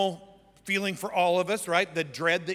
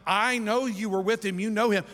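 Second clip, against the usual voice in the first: higher, pressing accuser; insistent accusation; 3 semitones higher, 3 dB louder than usual. Acted. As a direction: press the charge with a raised pitch. Accuser presses Peter third time.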